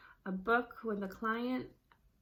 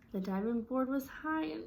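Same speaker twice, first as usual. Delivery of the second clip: higher, livelier storybook reading with feeling; expressive read-aloud; 4 semitones higher than usual. Shown as a demonstration. Parent reading to a child, adding emotion to each word. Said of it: "show that in our voice".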